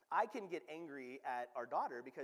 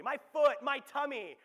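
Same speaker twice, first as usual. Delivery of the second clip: louder, higher mock toddler whine; whiny toddler complaint; 6 semitones higher, 12 dB louder than usual. Dad imitating his toddler's fake injury, loud mock whine. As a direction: whine like a toddler dodging bedtime.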